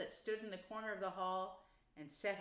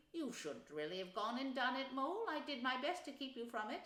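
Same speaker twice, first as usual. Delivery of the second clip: lightly voiced animal character, a little higher; kindly, chiding Rat; 4 semitones higher, 4 dB louder than usual. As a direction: gently explain the rules to a newcomer. Rat gently lectures frightened Mole.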